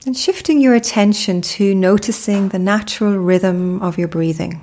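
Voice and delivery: calm, unhurried meditation guide with long pauses; measured, soothing mindfulness narration; guided meditation. Acted. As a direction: lead the listener gently into stillness, pausing between phrases.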